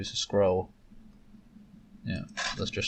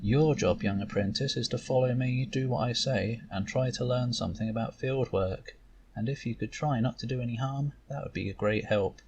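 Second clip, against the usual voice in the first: amused mentor. Acted. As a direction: lightly tease the young apprentice. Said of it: "Shanti looks amused".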